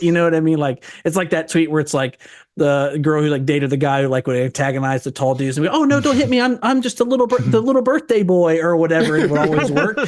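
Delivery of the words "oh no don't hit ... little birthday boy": mock whiny plea. Mocking guy antagonizing tall dudes.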